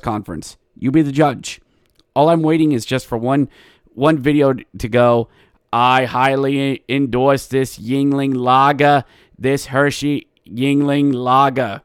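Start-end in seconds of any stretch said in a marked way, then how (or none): 5.7-11.8 slow, lightly voiced Quimby drawl; a hint of mayor Quimby endorsing beer; Diamond Joe Quimby impression. Podcast host imitating the new coach as Quimby, slow and mild. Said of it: "he sounded a lot like a Diamond Joe Quimby".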